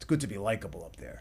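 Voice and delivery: imitated raspy voice. Quoting what Richie told the speaker, imitating Richie's raspy voice. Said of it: "Richie had a very raspy voice".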